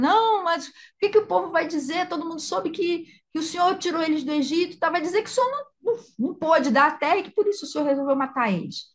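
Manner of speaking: high, fast urgent pleading; lightly voiced pleading Moses. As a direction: argue quickly to talk God out of it. Moses arguing with God.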